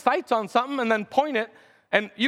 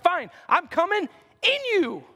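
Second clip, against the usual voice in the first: God's voice. Retold or imitated. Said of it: "He's like".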